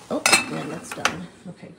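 usual speaking voice

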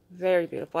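emphatic repeat. Real, not acted. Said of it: "repeated with emphasis".

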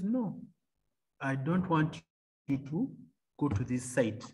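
soft, low hushed voice of God; imitated whisper. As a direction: quote it softly, as a hushed instruction. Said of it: "he whispers and says".

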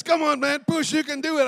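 high, shouted pep talk; acted-out gym coaching yell; spotter's urging. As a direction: drive him on at full volume.

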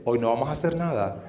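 low, soft, flat-out refusal; cold dismissal. Retold or imitated. The Canarian girl coldly refusing him, low and soft. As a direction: drop the voice and shut him down. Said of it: "te dice".

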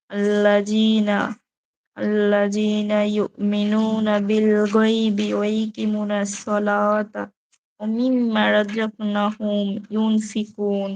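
slow, measured Quranic recitation. Acted. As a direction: draw each Arabic syllable out slowly. Reads Quran verses aloud. (ধীর কোরআন তিলাওয়াত)

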